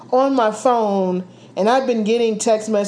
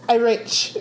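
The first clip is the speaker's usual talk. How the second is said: mock British accent. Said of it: "Look at my British accent".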